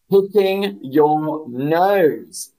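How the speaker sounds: "Picking your nose" said very slow, "Picking" stressed; slow model. Shown as a demonstration. Teacher modelling "Picking your nose" for the chat, very slow. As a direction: drag it out, lean on "Picking". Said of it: "teacher models phrase".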